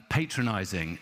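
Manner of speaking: patronizing with a long "pay" start; American-style first vowel. Retold or imitated. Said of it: "It's patronizing, not patronizing".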